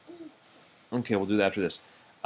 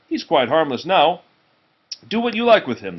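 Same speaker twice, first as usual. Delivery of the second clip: tailor boasting; 5 semitones higher, 5 dB louder than usual. Acted. Tailor boasting to king's men.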